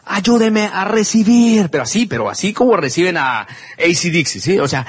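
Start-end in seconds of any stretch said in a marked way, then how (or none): 0.1-1.7 slow, high, drawn-out arena call; announcer cry. Retold or imitated. Announcer calling the crowd, drawn-out cry. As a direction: belt it like a stage announcer. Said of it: "pegan un grito desgarrador".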